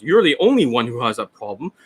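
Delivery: mock a defensive seller turning down a customer; blame-shifting coach. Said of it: "This is what he says".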